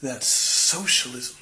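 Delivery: slow, disgusted retort, imitating a guide. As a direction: draw it out with mock disgust. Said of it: "guide looks extremely disgusted".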